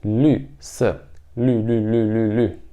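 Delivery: "lü" repeated steadily; repeated lü drill. Shown as a demonstration. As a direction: drill "lü" over and over. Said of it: "é um som bem diferente". (repetindo "lü")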